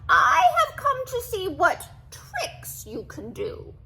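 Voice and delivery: sly cat calling up to the ogre. A narrator's reading. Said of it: "called the cat".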